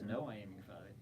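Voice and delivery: low, soft take on a movie villain; Darth Vader. Acted. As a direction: quote it low and quiet, villain-style. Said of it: "Then what does Vader say?".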